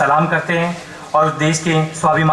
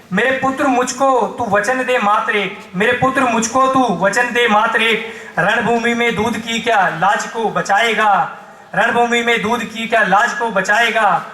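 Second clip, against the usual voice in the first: solemn declaimed plea in measured verse; poem recitation. Acted. Mother asks her soldier son for a promise, declaimed. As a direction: recite it as a rhythmic appeal.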